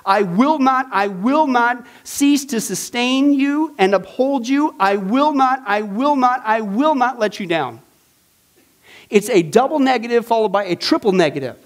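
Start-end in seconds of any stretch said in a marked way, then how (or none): 0.1-7.8 loud, hammering each I will not; emphatic promise. Shown as a demonstration. Teacher booming God's promise to the class, loud and emphatic. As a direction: pound out every I will not like a vow. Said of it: "Here's literally what it says".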